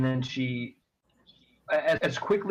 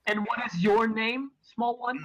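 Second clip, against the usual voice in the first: talking down kindly; 6 semitones higher than usual. Acted. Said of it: "Crouches slightly and says".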